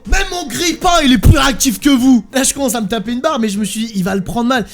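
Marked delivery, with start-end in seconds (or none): 0.1-2.2 loud mock tirade; imitated garage boss yelling; angry mechanic rant. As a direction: rant at the customer. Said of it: "il me sort".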